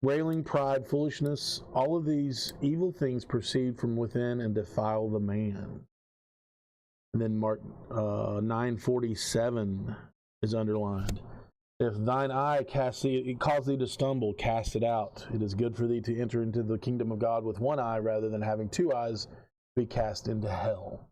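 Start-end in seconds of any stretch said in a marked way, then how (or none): 0.0-5.9 measured King James reading voice; scripture reading. Acted. Keeper reads the marked verses to the players, measured. 11.8-21.1 measured King James reading voice; scripture reading. Acted. Keeper reads the marked verses to the players, measured.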